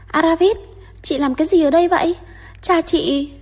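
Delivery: high, loud, fast excited call; shrill cry. A narrator's reading. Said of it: "kêu lên với cái giọng lanh lảnh".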